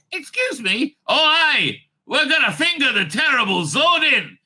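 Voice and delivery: very enthusiastic, loud and high; Jamie. Acted. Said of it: "said Jamie. Very, very, you know, uh, enthusiastically".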